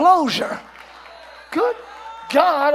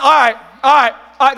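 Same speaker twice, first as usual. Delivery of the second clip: louder mock sarcastic agreement; sarcastic all right; 6 dB louder than usual. Preacher mocking a sarcastic reply, loud sarcasm. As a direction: say it like you don't mean it. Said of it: "That's being sarcastic".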